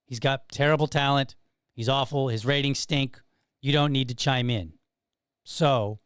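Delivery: lightly voiced radio announcer read; a hint of broadcast voice. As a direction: read it like a radio host addressing the president. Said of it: "my good radio voice".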